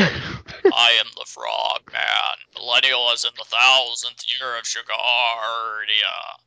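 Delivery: slow, shouted croaky frog-man voice. Acted. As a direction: boom it out like a big frog. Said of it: "I can't do frog voice anymore".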